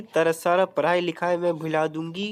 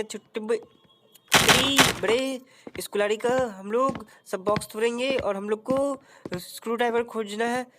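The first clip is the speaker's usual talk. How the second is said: lightly voiced cheeky sidekick; Utri Bade voice; 2 semitones higher than usual. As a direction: stretch the name slowly, like a know-it-all buddy. Answering character voice.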